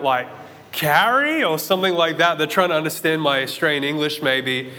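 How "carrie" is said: high questioning call from above; strangers calling. Retold or imitated. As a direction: call up the name like a stranger unsure of it. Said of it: "they were shouting out".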